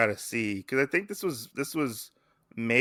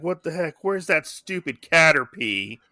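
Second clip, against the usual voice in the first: annoyed quote; 4 semitones higher, 3 dB louder than usual. Retold or imitated. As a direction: act out mild exasperation, pitched up. Acting out Red's annoyance.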